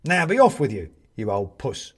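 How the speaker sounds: put-on old man shouting at the cat. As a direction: chase the cat away. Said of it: "shouts Bobs".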